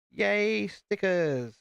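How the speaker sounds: mock cheer, deflating into a dull stickers; sarcastic yay. Bored by stickers, he fakes a cheer, sarcastic. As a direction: fake excitement that drops flat. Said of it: "You can tell how excited I am".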